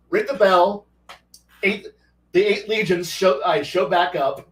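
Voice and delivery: usual speaking voice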